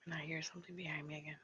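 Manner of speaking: fast, voiceless whisper; frightened whisper. Real, not acted. Spooked vlogger whispering to viewers during session, frightened whisper. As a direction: whisper it, afraid to be heard.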